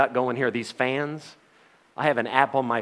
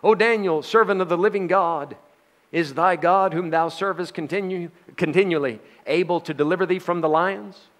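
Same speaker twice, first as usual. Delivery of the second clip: a mild lament, raised and pleading; lamentable cry; 4 semitones higher than usual. Acted. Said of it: "he cried with a lamentable voice".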